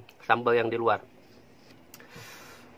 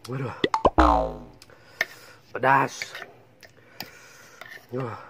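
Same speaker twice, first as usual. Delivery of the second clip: mouth burning from spicy food. Real, not acted. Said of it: "benar-benar pedas".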